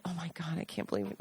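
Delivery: breathy whisper, barely voiced; whispered oh my God; hushed disbelief. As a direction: gasp it out under your breath in disbelief. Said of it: "But we felt like".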